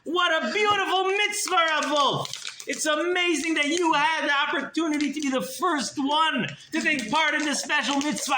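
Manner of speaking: effusive praise. Acted. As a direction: heap on delighted thanks.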